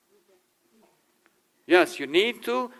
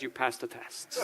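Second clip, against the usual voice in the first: laughing verdict; 3 semitones lower, 11 dB quieter than usual. Retold or imitated. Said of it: "and says".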